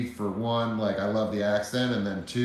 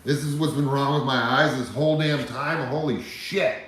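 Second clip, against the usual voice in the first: loud, higher cry of disbelief, the first words drawn out slowly; stunned amazement; 5 semitones higher, 7 dB louder than usual. Retold or imitated. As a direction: blurt it out as if seeing clearly for the first time. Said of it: "and I was like".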